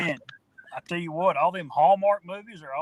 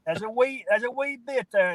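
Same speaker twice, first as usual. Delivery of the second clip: lightly imitated catchphrase, pitched up; Matt impression; 5 semitones higher than usual. Quoting his friend's saying to the group, light impression. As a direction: mimic a friend's pet phrase, a little higher. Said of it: "as my man Matt, Matt would say".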